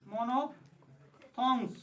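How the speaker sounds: मोनोफ्थोंग्स drawn out slowly, syllable by syllable; slow, clear spelling-out. Shown as a demonstration. Teacher drawing out मोनोफ्थोंग्स slowly for the class. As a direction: stretch मोनोफ्थोंग्स slowly so students can copy. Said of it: "सबसे पहले देखते हैं".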